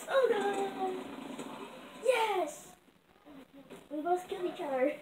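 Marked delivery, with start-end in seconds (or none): 0.1-2.7 excited yelps. Real, not acted. Trade kills in game.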